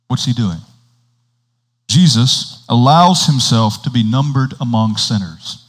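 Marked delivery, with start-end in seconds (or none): 1.9-5.6 deliberate reading, spacing out the phrases; slow reading. Real, not acted. Preacher reading a hard passage for listeners, slow reading. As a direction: set each phrase apart as you read. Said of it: "I'm gonna read it slowly".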